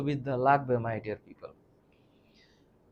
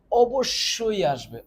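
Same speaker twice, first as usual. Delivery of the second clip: অবশ্যই punched higher and louder, slowly; emphatic warning; 6 semitones higher, 6 dB louder, slower than usual. Shown as a demonstration. Teacher warning students the picture will come, emphatically. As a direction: lean hard on অবশ্যই. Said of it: "এই ছবিটা পরীক্ষায়".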